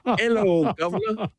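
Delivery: high, put-on booming hello governor; loud mock greeting. Homies hailing him loudly in the hotel lobby, put-on voice. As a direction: bellow it cheerfully in a put-on voice. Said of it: "in the loudest voice imaginable".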